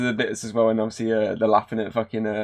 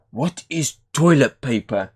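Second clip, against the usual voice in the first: slow mock chimp voice; 3 semitones higher, 3 dB louder, slower than usual. The chimp character's reply.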